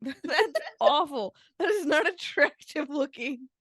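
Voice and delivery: laughing through the words; half laughing, half groaning. Real, not acted. Laughing at the faces.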